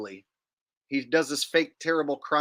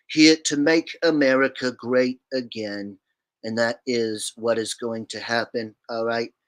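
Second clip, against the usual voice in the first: Trump impression; 2 semitones lower than usual. Shown as a demonstration. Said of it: "Trump impression, please".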